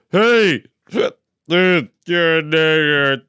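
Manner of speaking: drawling redneck insult. Retold or imitated. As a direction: sneer it like a hick. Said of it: "what happened to me one time".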